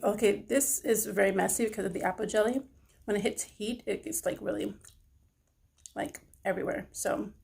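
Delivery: words between licking fingers; talking while licking fingers. Real, not acted. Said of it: "sorry if I'm licking my fingers".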